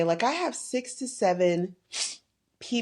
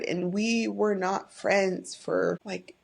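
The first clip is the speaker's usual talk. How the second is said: getting emotional; slower than usual. Real, not acted. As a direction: hold back the tears as you say it. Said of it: "I'm getting emotional".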